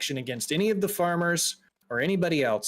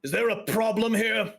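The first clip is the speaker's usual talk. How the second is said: higher, stern officer's challenge; challenging guard captain; 7 semitones higher than usual. Acted. Guard captain confronts the scowling travelers, challenging. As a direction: confront them as the officer in charge.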